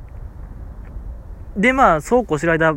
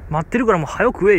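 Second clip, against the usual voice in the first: mild mock gruff order; 4 semitones higher, faster than usual. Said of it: "結構怒鳴り気味やった".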